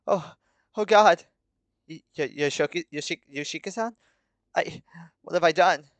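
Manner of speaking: stammering in dawning horror; horrified. A narrator's reading. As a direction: falter over the name in shock. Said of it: "dropping the knife in horror".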